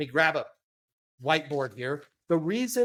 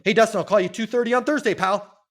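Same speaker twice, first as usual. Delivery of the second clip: fast, higher, louder and pushy; pushy salesman; 5 semitones higher, 5 dB louder, faster than usual. Shown as a demonstration. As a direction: rattle it off like a slick salesman.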